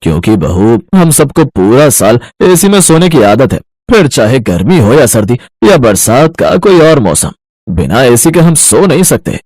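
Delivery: lightly voiced old father-in-law. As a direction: lay down the family rule slowly. In-laws explain AC habit.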